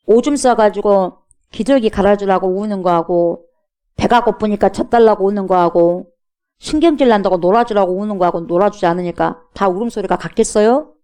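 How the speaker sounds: ordinary talk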